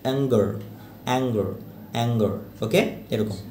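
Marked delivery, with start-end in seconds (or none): 0.1-2.3 "অ্যাঙ্গার" ending in a weak schwa, like "ang-guh"; barely sounded schwa. Shown as a demonstration. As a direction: stop the last vowel of "অ্যাঙ্গার" short. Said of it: "আ দিয়ে আপনি stop করে ফেলবেন".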